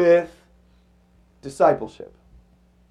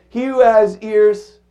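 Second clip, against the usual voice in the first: preached saying; 3 semitones higher, slower than usual. Retold or imitated. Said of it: "he'd say".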